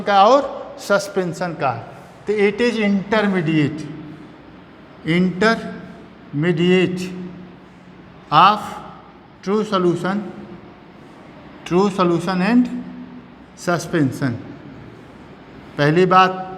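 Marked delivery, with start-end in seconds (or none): 2.4-14.3 very slow, stretched-out words; slow dictation. Real, not acted. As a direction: dictate it piece by piece for students writing. Teacher dictates English definition slowly.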